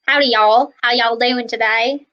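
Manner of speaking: a friendly Southern greeting, lightly done; mild imitation of a Southern US accent. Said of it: "like, people in the South".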